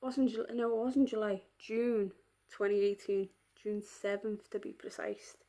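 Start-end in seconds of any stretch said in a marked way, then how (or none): 3.6-5.4 whispered. Real, not acted. Recalling worst day of life.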